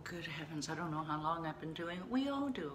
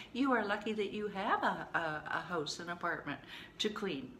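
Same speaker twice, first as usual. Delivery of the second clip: firm, half-playful telling-off; harsh tough love. Retold or imitated. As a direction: drive home how lucky they are. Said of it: "that was a little harsh".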